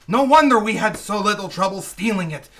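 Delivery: seething insults, slowing at the end; furious tirade. Acted. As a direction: berate him, spitting out each insult. Furious partner berates his accomplice.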